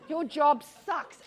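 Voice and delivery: blurting it out with a laugh; laughing outright. Retold or imitated. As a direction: let it burst out laughing. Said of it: "To say to someone".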